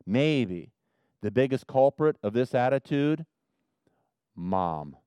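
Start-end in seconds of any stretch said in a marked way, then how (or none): 0.0-0.7 "maybe" drawn out and set apart; stress on maybe. Real, not acted. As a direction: lean deliberately on the word "maybe". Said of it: "let me emphasize the word maybe".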